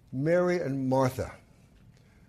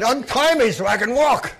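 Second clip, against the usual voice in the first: raised, eager request; Lazarus pleading; 7 semitones higher, 7 dB louder than usual. Acted. Wrapped Lazarus asks to be untied, raised plea. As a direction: ask to be freed.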